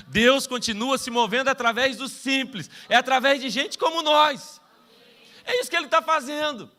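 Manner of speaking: preaching loud. Real, not acted. Preacher building to a climax.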